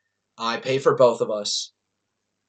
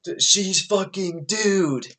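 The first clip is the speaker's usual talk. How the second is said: laughing; 6 semitones higher, much slower than usual. Real, not acted.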